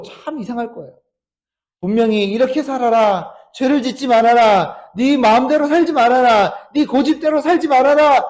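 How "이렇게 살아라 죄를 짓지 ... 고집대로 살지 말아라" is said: commanding voice of God. Acted. Preacher voices God's commands.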